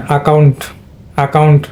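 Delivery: অ্যাকাউন্ট opened with an "a" (আ) sound, not "æ"; "আ" sound first. Shown as a demonstration. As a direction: say অ্যাকাউন্ট as "a-KAUNT". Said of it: "আ হবে".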